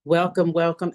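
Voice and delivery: ordinary delivery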